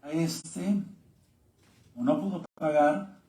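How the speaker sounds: steady, earnest Bible reading to the congregation; preacher reading the parable to his listeners, earnest; scripture reading. Acted. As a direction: read the verses out clearly, like a preacher. Reads scripture passage aloud.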